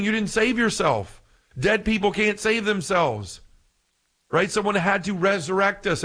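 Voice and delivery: ordinary talk, nothing marked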